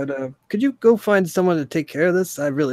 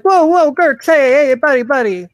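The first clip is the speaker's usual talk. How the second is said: much higher and louder, startled "whoa" greeting; startled call; 10 semitones higher, 8 dB louder than usual. Acted. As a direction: call out in alarm, then fake friendliness. Guard calls out to Gurks.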